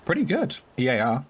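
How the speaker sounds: laughs through a mouthful of bacon; chewing and laughing at once; laughing with mouth full. Real, not acted. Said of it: "Stop making me laugh while my mouth's full of bacon".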